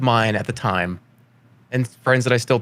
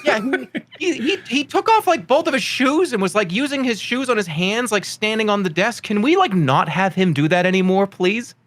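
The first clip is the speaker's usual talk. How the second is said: very high, strained complaining voice; high-pitched mock pleading with the parents; exasperated teacher imitation; 9 semitones higher than usual. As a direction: mimic a teacher at wits' end.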